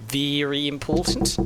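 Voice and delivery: slow, drawn-out put-on British accent "Very important" with a rising end; hammy British accent, slowed down on "important"; mock British accent. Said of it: "that's not a British accent".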